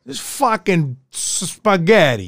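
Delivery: drawn-out, hammed-up Italian-American accent; mock Italian-American. Co-host joking about Italian restaurant food, mock Italian-American accent. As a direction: stretch it out in a fake Italian-American voice. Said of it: "we gotta talk like this".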